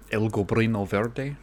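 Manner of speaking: badly faked Spanish accent; lightly hammed-up Spanish accent; terrible Spanish accent. Podcaster jokingly naming the Goblin's evil mode, bad Spanish accent. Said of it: "that was a terrible accent".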